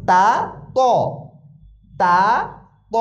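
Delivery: light, thin তা against heavy, rounded ত; thin-thick contrast. Shown as a demonstration. Teacher drilling two confused letters, thin তা then thick ত. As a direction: alternate open thin তা with round-mouthed thick ত. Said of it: "ত আর তার ভিতরে উচ্চারণে পার্থক্য আছে".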